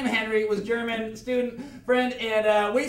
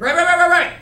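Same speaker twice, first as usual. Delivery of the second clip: excited agreement; 10 semitones higher, 11 dB louder, much faster than usual. Real, not acted. Eager agreement, shouting.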